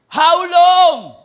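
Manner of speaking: high, loud cry of God's question; booming cry. Acted. Pastor voicing God asking Samuel, loud cry. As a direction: call it out across the room.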